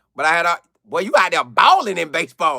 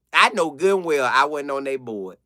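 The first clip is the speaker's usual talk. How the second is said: ordinary talk, nothing marked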